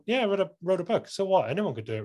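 offhand, pitch up then dropping away; dismissive. Acted. Author waving away their own book, dismissive. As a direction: shrug off your own achievement, quickly. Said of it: "I completely almost dismiss my, my achievements".

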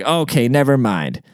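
slow, fed-up retold brush-off; curt dismissal. Customer repeats the brush-off to the clerk, slow and dismissive. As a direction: draw it out, done with asking. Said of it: "I literally said, it's like".

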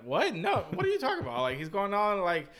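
high, disbelieving retelling; mock disbelief, pitch jumping up; incredulous. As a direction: act out her shock that he's on so early. Lisa's incredulous retold reaction.

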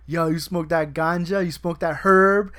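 slow, building mock stoner questions; mock coworker. Coworkers pestering him about weed, slowly building mock voice. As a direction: drag out each question, rising to a loud peak. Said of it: "all my coworkers will be like".

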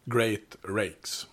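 Great Rakes as two separate, careful words; unsure of the name, sounding out Great Rakes; tentative pronunciation. Real, not acted. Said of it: "vet inte hur man uttalar hans namn".

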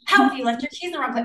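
half-hearted mock yell of a scolding neighbor; mock angry neighbor yelling. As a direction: bark it like a cranky neighbor over the fence, mildly. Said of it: "yelling over the fence".

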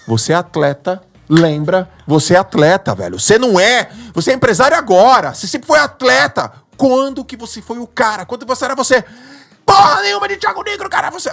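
rally yourself hard; pumped-up voice yelling at himself; self pep talk. Retold or imitated.

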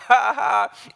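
loud, high jeering ha-ha; hammed-up mocking laugh. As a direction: imitate kids laughing at him. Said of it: "They're like".

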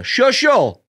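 high, loud mock Dice hello; Dice greeting. Comic imitating Dice greeting him backstage. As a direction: belt the name like Dice. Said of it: "he goes".

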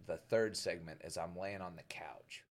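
breathy whisper of a hazy memory. Retold or imitated. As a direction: whisper it like a secret. Retold drunk memory.

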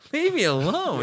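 high ghost voice. Retold or imitated. Ghost voice continued.

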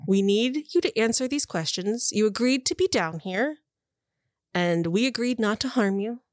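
lightly voiced interrogator, strained patience; patient woman interrogator. Woman asking prisoners to cooperate, patient but strained. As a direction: reason with them, lifting the pleas.

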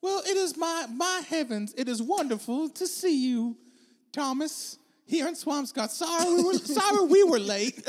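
a touch of a genteel lady, slow; lightly voiced Abigail, sweetly welcoming; playing Abigail Adams. Abigail greets Thomas Jefferson at dinner, lightly genteel. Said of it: "Abigail have come to the plantation".

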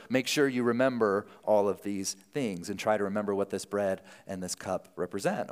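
casual, businesslike announcement, easing down at the end; offhand briefing to friends; matter-of-fact. Acted. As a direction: deliver grave news as if it were routine. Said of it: "Who speaks so matter-of-factly".

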